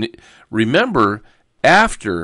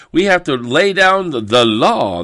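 higher, louder imitation of activists; mock protester demand; 5 semitones higher, 4 dB louder than usual. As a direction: raise the pitch as if rallying protesters. Mimics protesters making demands.

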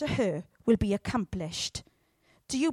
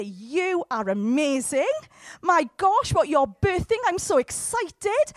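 mock delight; 3 semitones higher, 4 dB louder than usual. Acting joy for another.

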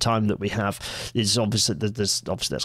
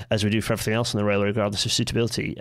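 sarcastic; much faster than usual. Acted. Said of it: "sarcasm finishes".

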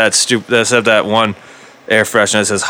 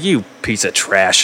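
mock ghetto lady; 3 semitones lower, 4 dB quieter, much slower than usual. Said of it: "It's like".

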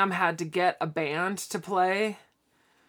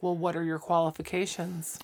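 whispered line; 2 semitones lower, 6 dB quieter than usual. Retold or imitated. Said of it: "And she's like".

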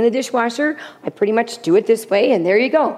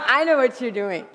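laughing husband; 3 dB quieter than usual. Retold or imitated. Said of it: "he'll turn to me and go".

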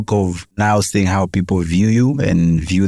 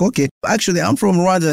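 patient correction; 12 semitones higher than usual. Retold or imitated. Correcting people in retold scene.

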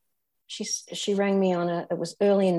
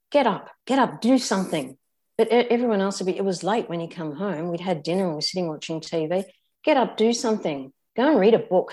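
mocking father; 3 dB louder than usual. Drunk father mocking the bookish daughter, jeering order. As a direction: needle the child like a drunk dad.

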